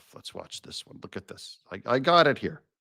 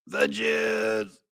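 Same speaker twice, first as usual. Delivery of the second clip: high, drawn-out mocking voice; mock insinuation; 8 semitones higher, 3 dB quieter than usual. Host repeating the pundit's supposed insinuation, mock high voice. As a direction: stretch it out up high, conspiratorially.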